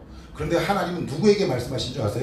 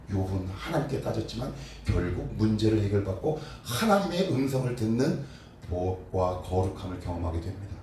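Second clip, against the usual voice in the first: normal talking voice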